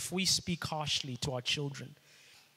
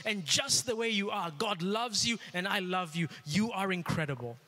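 affirming parent; 4 semitones higher than usual. Retold or imitated. Pastor voices a father telling his child he is loved, encouraging. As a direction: pour encouragement over the child.

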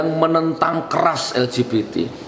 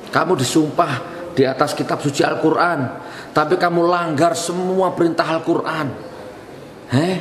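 rising accusation; 5 semitones higher than usual. Real, not acted. Accusing the judges.

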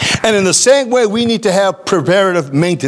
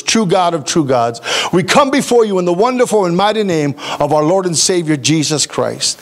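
prayer; 3 semitones lower than usual. Acted. Opening prayer before sermon.

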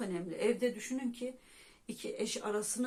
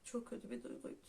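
much softer, whispered with a falling close; whispered repeat; 8 dB quieter, faster than usual. Real, not acted. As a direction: echo the line under your breath in a whisper. Repeats line, second whispered.

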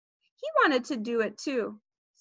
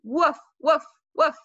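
short, punchy, spoken woofs; playful dog bark; 4 semitones higher, 5 dB louder than usual. A narrator's reading. Fudge playing dog under the kitchen table, barking. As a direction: bark like a child playing doggy.

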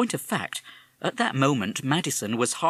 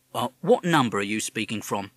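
policeman; 4 dB louder than usual. Acted. Policeman questions caller.

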